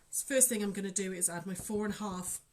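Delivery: holding back hiccups mid-sentence; talking through hiccups; suppressing hiccups. Real, not acted. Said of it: "sorry, I've got hiccups".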